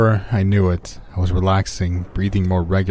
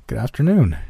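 warm, higher-pitched hello; warm greeting; 5 semitones higher than usual. A narrator's reading. Nurse greets the waking patient, warm. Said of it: "he gave me a warm".

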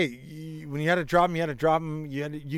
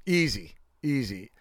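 slow, lower-pitched settling voice; acted calming down; 4 semitones lower than usual. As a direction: rein in a rookie slowly. Veteran calming him down.

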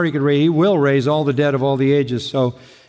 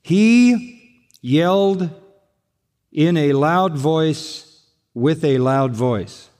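slow, drawn-out reading with a raised start; emphatic reading; much slower than usual. Shown as a demonstration. Preacher showing how the original reads, slow and emphatic. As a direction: stretch the words out, then settle back down. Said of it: "you would read like this".

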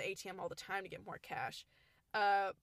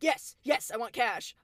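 eager driver; 2 semitones higher, 7 dB louder than usual. Retold or imitated. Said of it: "And he's like".

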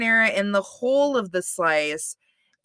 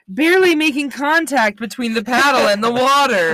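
higher, slipping mock Australian accent; bad Australian accent; 6 semitones higher, 4 dB louder than usual. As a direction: mimic the host in a wobbly Australian accent. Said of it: "the host calls out Khan".

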